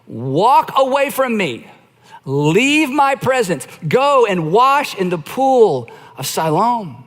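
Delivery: slow solemn command. Retold or imitated. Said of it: "he told him".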